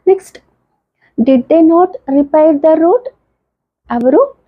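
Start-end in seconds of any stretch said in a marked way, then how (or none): 1.2-3.1 very slow, word-by-word example read; slow classroom reading of an English example; slow dictation. Shown as a demonstration. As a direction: spell the sentence out slowly for students. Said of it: "teacher dictating example sentence".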